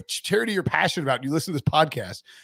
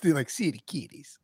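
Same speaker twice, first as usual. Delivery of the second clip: funny voice; 2 semitones lower, 6 dB quieter than usual. Pretend. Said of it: "I don't even know what accent or, like, what voice".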